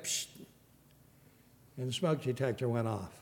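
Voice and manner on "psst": short hissed "psst"; brief aerosol sound made by mouth; imitated spray hiss. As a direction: mimic a quick squirt from a can. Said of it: "and he went".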